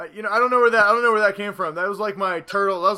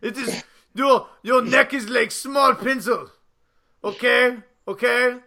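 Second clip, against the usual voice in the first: put-on Russian accent. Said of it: "turned my German to a Russian accent".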